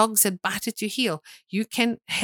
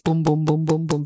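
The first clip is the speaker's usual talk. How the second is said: chest-beating booms; 3 semitones lower than usual. Shown as a demonstration. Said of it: "beat my chest".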